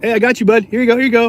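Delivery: high, loud reassuring call; eager helper. Retold or imitated. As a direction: jump in loudly to help. Retold offer of help, calling.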